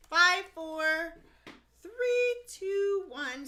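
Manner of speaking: rising countdown, auctioneer style. Pretend. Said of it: "is that an official auctioneer's voice".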